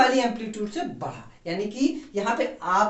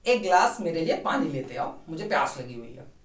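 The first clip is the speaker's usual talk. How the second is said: gentle request; 5 semitones lower than usual. Shown as a demonstration. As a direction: ask sweetly, like to a little brother. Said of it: "बहुत प्यार से बोला". (प्यार से धीमी आवाज़ में)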